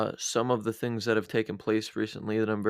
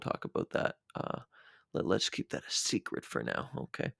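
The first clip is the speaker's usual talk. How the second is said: whispering; 10 semitones lower, 9 dB quieter than usual. Real, not acted. Keeping a topic secret.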